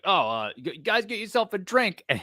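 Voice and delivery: lightly voiced friend offering drinks; imitated casual invitation. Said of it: "just the way he said it".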